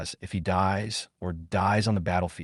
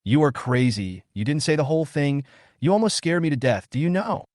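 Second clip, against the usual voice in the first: higher, rising mock scolding; cursing; 4 semitones higher than usual. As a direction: scold him, climbing toward do you know. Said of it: "I cursed immediately".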